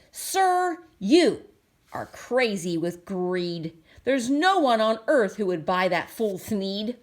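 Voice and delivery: a touch of sharp scolding; mild bossy Lorax. Acted. Lorax tells the Once-ler he's greedy, lightly scolding. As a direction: jab at him on each word.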